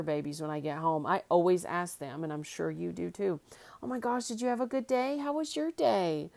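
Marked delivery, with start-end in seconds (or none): 3.8-6.3 much higher doggy voice, slowing at the end; pet talk. Retold or imitated. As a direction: coo at the dogs as she comes home. Asking her dogs about their day.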